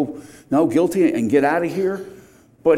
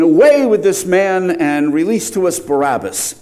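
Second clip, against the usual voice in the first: mock crowd shout, a little higher and louder; crowd crying out; 4 semitones higher, 5 dB louder than usual. Preacher voicing the crowd crying out to Pilate, loud. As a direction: cry it out like the mob demanding Barabbas. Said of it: "they all cried out at once".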